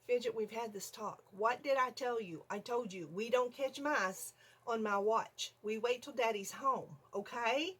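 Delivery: measured, slowing reprimand ending on a checking okay; mild mock scolding. Scolding Fidget for catching mice, mildly stern. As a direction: lecture a pet like a child.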